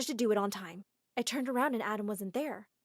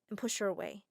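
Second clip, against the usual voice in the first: plain reading voice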